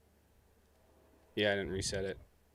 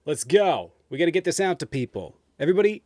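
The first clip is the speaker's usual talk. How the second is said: loud hype; 6 semitones higher, 7 dB louder than usual. Real, not acted. Hyping up viewers to engage.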